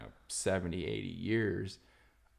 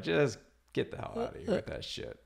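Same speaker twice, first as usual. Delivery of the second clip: higher-pitched scoffing quote; pitched-up, half-amused brush-off; mock dismissal; 8 semitones higher than usual. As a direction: imitate a crowd waving off an idea. Acting the group dismissing Sam.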